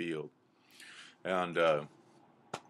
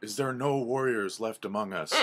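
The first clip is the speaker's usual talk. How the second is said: owl pleading; 4 semitones higher, 3 dB louder than usual. Acted. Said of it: "the owl asks again".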